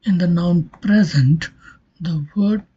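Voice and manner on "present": "present" stressed on "pre"; stress on first syllable. Shown as a demonstration. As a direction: lean on the opening "pre" of "present". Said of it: "falls on the first syllable".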